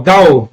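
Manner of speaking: "dal" as one syllable, gliding from a to o; "dal" said as a single diphthong; fused syllable. Shown as a demonstration. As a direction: isolate "dal", the joined vowels of "dá" and "o". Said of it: "Olha a pronúncia".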